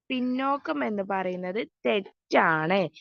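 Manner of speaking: usual speaking voice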